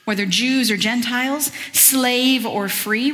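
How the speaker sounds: a slow, drawn-out reading voice; different reading voice. Acted. Preacher reading scripture in a put-on voice, slow. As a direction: stretch the words out slowly, x0.4. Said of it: "when I do a different voice".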